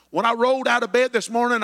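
ordinary talk

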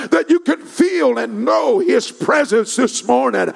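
building pulpit cadence, each phrase pressed home; impassioned sermon swell; fervent preaching. Real, not acted. Preaches at full force.

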